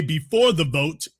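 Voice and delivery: ordinary delivery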